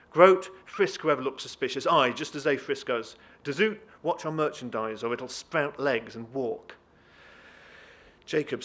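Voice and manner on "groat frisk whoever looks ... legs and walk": loud commands, easing toward the end; shouted orders. Acted. Deputy orders men to watch merchandise, loud and commanding. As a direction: call out brusque orders to staff.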